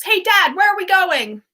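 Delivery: loud, high imitation of a boy calling. Acting Ron calling out to his dad.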